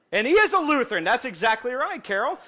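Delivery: high, excited squeal; mock high squeal. Preacher delighting in Carvey being Lutheran, high squeal.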